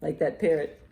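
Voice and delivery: loud, lively picture-book read; reading to children. Acted. Librarian reads a bird book aloud to children, loud and lively. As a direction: read it out big for a room of kids.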